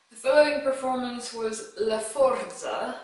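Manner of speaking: La Forza said with a mock Italian accent. Shown as a demonstration. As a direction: give La Forza a playful Italian lilt. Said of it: "I made it sound Italian".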